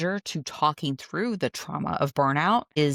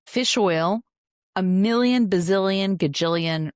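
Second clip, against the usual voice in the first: excited exaggeration; 3 semitones higher, 4 dB louder than usual. Real, not acted. Host hyping fish oil research to listeners, excitedly. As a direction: pitch jumps up and gets louder on the list.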